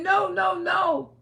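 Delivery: high, insistent retold protest; retold hollering. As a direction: re-enact frantic denial without a full scream. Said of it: "I started screaming and hollering".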